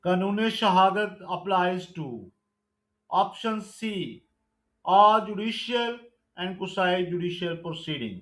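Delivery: slow, deliberate exam-question read; measured MCQ recitation; slow quiz reading. Acted. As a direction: dictate each question and option slowly. Reads MCQ question and answer.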